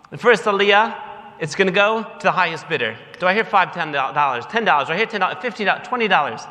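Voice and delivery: brisk auctioneer patter, speeding up at the end; lightly played auctioneer running the bidding. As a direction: rattle off the bids like an auction caller. Auctioning off the aliyah.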